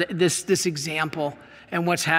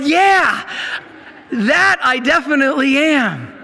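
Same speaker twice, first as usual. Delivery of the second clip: put-on eager boy; 6 semitones higher, 4 dB louder than usual. Boy answers the priest.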